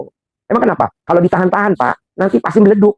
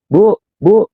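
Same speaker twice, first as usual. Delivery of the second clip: higher-pitched call to someone out of earshot; calling his wife; 5 semitones higher than usual. Acted. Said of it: "istri dipanggil nggak denger".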